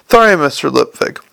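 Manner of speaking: lisped "Sorry", with th for s; lisping servant's apology, s sounds turned to th; Igor's lisp. Acted. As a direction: say "Sorry, Mister Lipvig" with a thick lisp. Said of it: "your lisp just departed".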